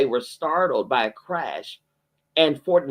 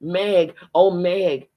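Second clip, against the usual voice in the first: crying out; 4 semitones higher, 4 dB louder, much slower than usual. Acted. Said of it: "crying out".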